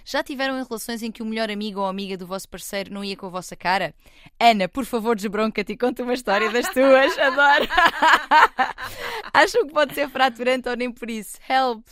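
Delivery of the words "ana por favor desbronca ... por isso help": high, loud, playful begging; excited plea. Acted. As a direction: read it like a giddy fan. Reading listener's cheeky plea.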